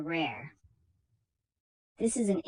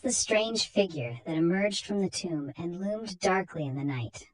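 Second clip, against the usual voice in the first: spooky horror intro. A narrator's reading. Narrator setting a chilling mood, lightly ominous. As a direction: ease into the dread like an old radio host.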